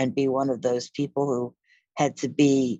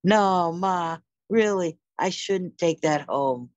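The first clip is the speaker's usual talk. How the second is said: mock reluctance; 4 semitones higher, slower than usual. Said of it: "I was happy".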